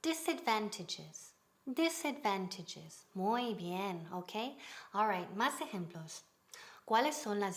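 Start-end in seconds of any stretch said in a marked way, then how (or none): 0.0-3.1 "Disadvantages" said slowly and evenly; measured teacher's drill of "Disadvantages"; model pronunciation. Shown as a demonstration. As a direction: say "Disadvantages" carefully for a class to repeat. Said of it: "Ok, repeat".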